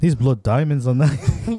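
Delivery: put-on jokey movie-style South African accent; Leo. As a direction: attempt a Blood Diamond South African accent. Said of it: "Can you do the Leo blood diamond accent?".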